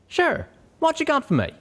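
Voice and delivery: busy mechanic, casual then puzzled; a lightly voiced southern stallion. Calamity voiced again.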